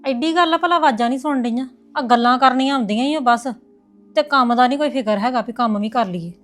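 sister-in-law griping loudly about the lazy wife; angry complaint. Acted. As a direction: vent your irritation.

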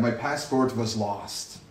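slow, careful model sentence; polished version. Shown as a demonstration. Teacher slowly modelling the better sentence, soft and careful.

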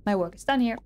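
a lightly voiced cocky shark, dismissive; smug shark guard. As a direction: brush the hero off like a bored bouncer. Reads the shark's lines.

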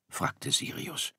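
plain reading voice

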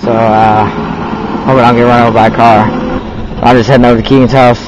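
talking while riding a scooter; speaking on the move on a scooter. Real, not acted. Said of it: "I'm going down the wrong way street right now on my scooter".

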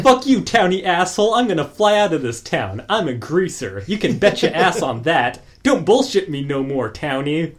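tough fifties greaser voice; sneering greaser taunt; greaser tough guy. Retold or imitated. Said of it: "starts talking like a nineteen fifties greaser".

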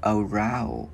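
"Around" with lips pushed forward on the R; pouted R. Shown as a demonstration. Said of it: "Chữ R mình chu môi ra". ("Around", chu môi ở âm R)

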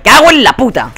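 loud, high angry outburst; furious swearing. Real, not acted. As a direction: blow up at the game. Getting killed in the game. (grito de rabia agudo y fuerte)

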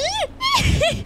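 shrill relieved laugh of escape; high giddy laugh. Real, not acted. Escaped the monster.

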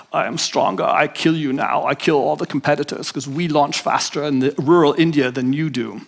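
lightly voiced Austrian bodybuilder; a hint of Arnold's boast; Arnold Schwarzenegger impression. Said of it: "Arnold Schwarzenegger talking in Pumping Iron".

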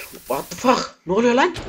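sharp, high cry of alarm; real fright shouted; startled shout. Real, not acted. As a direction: jump out of your skin. Sudden scare in the game.

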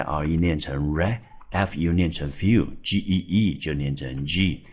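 letters first, then each syllable said slowly and separately; syllable breakdown. Shown as a demonstration. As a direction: slowly spell each part, then sound it: "re", "few", "G". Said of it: "第一个音节在".

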